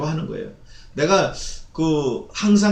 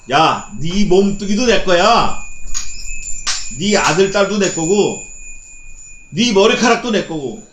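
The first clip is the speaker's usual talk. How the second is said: slow, loud, emphatic claim; God telling his people they belong to him; God claiming ownership; 2 semitones higher, 3 dB louder than usual. Acted. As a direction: lay it down slowly like the owner of everything. Preacher voices God claiming all.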